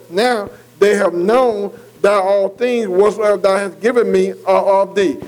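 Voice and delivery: slow, measured Bible reading; scripture reading. Acted. Preacher reading verse seven to his listeners, slow scripture reading. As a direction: read the verse out slowly and deliberately. Reads scripture aloud to the class.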